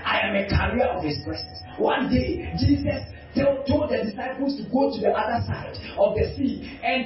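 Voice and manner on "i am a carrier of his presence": humble reply. Acted. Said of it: "you tell them".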